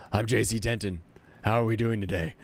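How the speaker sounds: gravelly voice, no clue what's happening; gravelly clueless voice. Retold or imitated. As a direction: sound gravelly and a bit lost. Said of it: "you have to say it in a gravelly voice that doesn't know what's going on".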